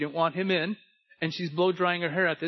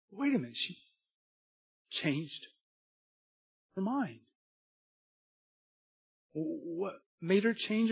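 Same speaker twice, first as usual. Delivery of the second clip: hushed preaching; 6 dB quieter than usual. Acted. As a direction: draw the congregation in quietly. Preacher's hushed storytelling climax.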